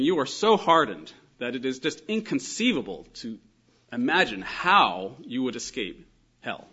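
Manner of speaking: loud, weighted stress on SO HARDENED and HOW; emphatic. Acted. Christ addressing hardened hearers, emphatic warning. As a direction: drive the warning home forcefully. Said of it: "an emphatic way".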